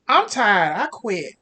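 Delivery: worn-out cashier quitting on the spot; loud fed-up outburst. Acted. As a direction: blurt out that you're done. Worker quits as car leaves.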